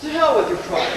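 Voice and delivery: loud, high exasperated snap; angry outburst. Real, not acted. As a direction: blow up at him.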